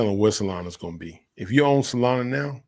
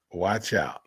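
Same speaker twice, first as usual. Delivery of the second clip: whisper. Real, not acted. Repeated softer as whisper.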